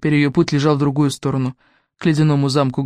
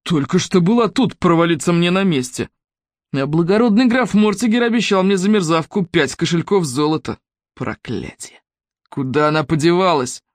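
angry villain. Acted. Fildrom raging at lost girl.

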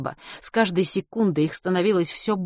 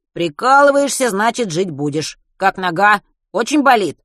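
concerned; 3 semitones higher, 6 dB louder than usual. A narrator's reading. Worried friend asks loudly.

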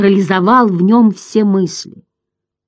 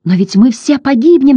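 loud, much higher cry; shout; 9 semitones higher, 6 dB louder than usual. A narrator's reading. Boy shouting at the indifferent turtle, loud and high. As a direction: cry out in despair. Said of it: "закричал Атрей".

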